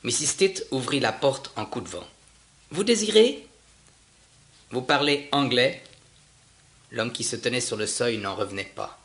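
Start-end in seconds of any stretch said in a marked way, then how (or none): 2.7-5.8 brusque Martian woman. Acted. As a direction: fling the question at the stranger. Martian woman opens door abruptly. (voix haute et brusque de la Martienne)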